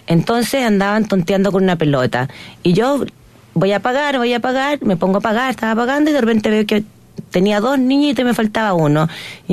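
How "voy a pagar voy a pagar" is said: raised, busy mutter to herself; hurried self-talk. Retold or imitated. Mother at the till, distracted, raised voice.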